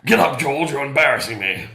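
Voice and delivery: loud, cantankerous British grump; cantankerous British gruffness. Acted. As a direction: bark it out like a crotchety Brit. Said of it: "Should I do it the cantankerous way?".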